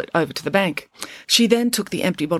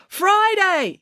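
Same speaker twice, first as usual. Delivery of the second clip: calling out. A narrator's reading. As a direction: shout her name from far away. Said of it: "yelled Melanie from the far side".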